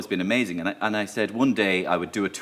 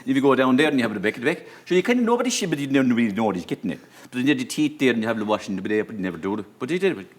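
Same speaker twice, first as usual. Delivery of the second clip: fast, rambling, barely intelligible mumble-talk; imitacja Dahiego. Retold or imitated. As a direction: gabble on in garbled half-words. Mock Dahi mumbling barely intelligible speech.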